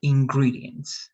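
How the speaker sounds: ingredients, slowly, with a clear E; slow model word. Shown as a demonstration. Teacher modelling the E sound, slowly. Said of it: "more like E".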